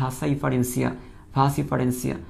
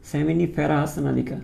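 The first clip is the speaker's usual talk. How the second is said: "seminiferous নালিকা" said very slowly, syllable by syllable; slow it down so students can copy; slow spelled-out term; 3 semitones lower, much slower than usual. Shown as a demonstration. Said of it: "একটু খেয়াল করে শিখে ফেলো". ("seminiferous নালিকা" খুব ধীরে ভেঙে ভেঙে উচ্চারণ)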